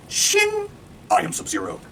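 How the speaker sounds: Sub-Zero. Retold or imitated. Quoting the Sub-Zero line.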